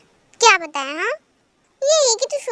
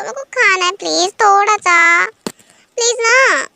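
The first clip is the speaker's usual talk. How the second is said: loud, begging for sweets; pleading; 2 semitones higher, 6 dB louder than usual. Acted. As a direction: wheedle like a spoilt child. Sister begs for sweets. (ज़ोर से गिड़गिड़ाती ज़िद)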